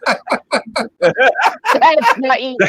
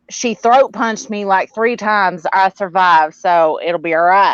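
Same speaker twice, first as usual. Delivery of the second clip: mock testimony; slower than usual. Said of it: "you're supposed to sit there and say".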